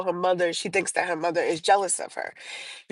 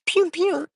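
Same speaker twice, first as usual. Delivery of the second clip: high-pitched "pew pew" gun noise; playful spoken gun sound effect; little high gunfire noise in place of the word; imitated gunshots; 11 semitones higher than usual. Imitates a gun in telling story.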